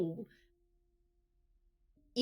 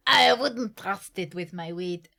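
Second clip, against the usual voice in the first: mock-British aside about the ladder; British accent for fun. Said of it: "I put on this British accent for fun".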